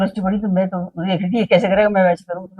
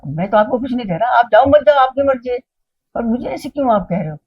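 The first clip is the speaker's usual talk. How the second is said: mock-irritated protest, rising louder and higher; irritated retort; 4 semitones higher, 4 dB louder than usual. Driver answering the PSO's repeated questioning, irritated. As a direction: retell an annoyed man defending himself. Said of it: "तो इसकी चिढ़ मची इसको".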